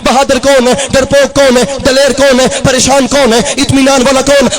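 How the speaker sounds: rhythmic rallying questions to the crowd; preaching. Acted. Preacher quizzing the crowd on who is brave. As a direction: rouse the gathering call and response.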